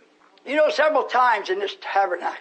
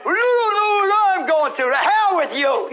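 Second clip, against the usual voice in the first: mock complainer; 7 semitones higher, 4 dB louder than usual. Voicing a complaining listener.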